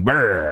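low buzzing "brr"; imitated groggy lip-rolling noise; stumbling noise. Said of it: "stumbling around and going".

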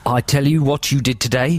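badly faked Aussie accent; mock Australian accent. Host tells Australian friend his day, mock Australian accent. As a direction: play a chatty Aussie mate. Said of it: "they're very poor Australian accents".

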